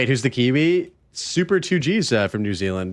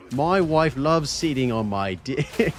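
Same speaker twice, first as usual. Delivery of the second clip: slow, clumsy attempt at a New Zealand accent; jokey mock New Zealand accent; bad New Zealand accent; slower than usual. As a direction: fake a Kiwi accent badly, dragging it out. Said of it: "That's not Kiwi at all".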